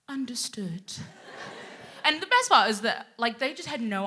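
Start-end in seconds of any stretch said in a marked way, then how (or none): 0.1-0.9 very soft, cowed reply; imitating a cowed coworker; meek colleague. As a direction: give in with a small, quiet word.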